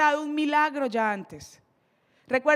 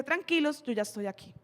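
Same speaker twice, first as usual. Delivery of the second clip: calm reassurance; 7 dB quieter than usual. Acted. Jesus arriving to the tired disciples, calm reassurance. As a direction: reassure them quietly, dropping at the end.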